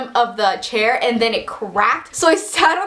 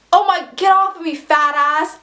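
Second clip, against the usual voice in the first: higher-pitched mock outburst at moderate volume; retold yell; 5 semitones higher than usual. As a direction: imitate an indignant girl yelling, held back. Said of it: "and then she yells".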